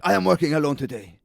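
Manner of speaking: high, exasperated mock scolding; imitating the boss losing it, pitched high; mimicking a furious boss on the phone; angry boss again. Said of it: "he was just like".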